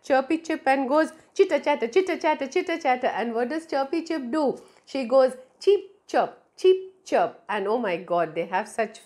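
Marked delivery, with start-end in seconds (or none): 1.3-3.1 higher, quick monkey chatter. Acted. Talkative monkey chattering at Chirpy Chip, higher pitch. 5.6-7.4 high bird chirps back; chirping bird. Acted. Chirpy Chip chirping back to the monkey, high and lively.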